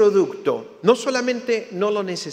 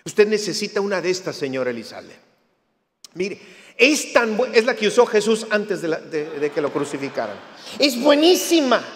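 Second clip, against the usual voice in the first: pushy salesman. Retold or imitated. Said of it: "me dijo".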